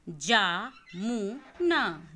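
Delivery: पुल drawn out slowly and loud, each sound clear; slow syllabic reading. Shown as a demonstration. Teacher reads पुल slowly, loud and stretched. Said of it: "देखिए कि मैं किस तरीके से पढ़ रही हूँ".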